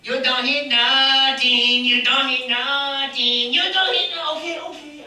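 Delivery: slow teasing puppet voice; taunting puppet dog. Acted. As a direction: tease the audience. Puppet mocks the miss.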